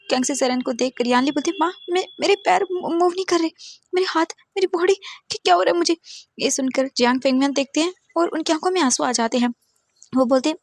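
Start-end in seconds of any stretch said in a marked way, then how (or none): 1.6-6.0 high, frightened stammering; rising panic, cannot move; girl frightened to her mother; panicked. A narrator's reading. Body won't move, panicking.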